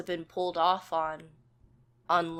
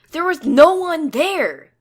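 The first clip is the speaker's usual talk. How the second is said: loud, slow, raised voice; insistent shout; 11 semitones higher, 13 dB louder than usual. A narrator's reading. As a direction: hammer it home, stretching each word. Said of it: "Psionic insists".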